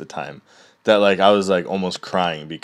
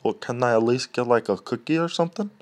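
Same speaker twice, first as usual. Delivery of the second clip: voicing the dog; 4 semitones higher than usual. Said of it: "and he's like".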